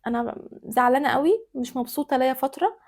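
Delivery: composed, restrained reproach; calm complaint. Acted. Wife telling her husband she is upset, calmly. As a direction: state the hurt evenly, without yelling. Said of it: "بلاش كده، خليكي".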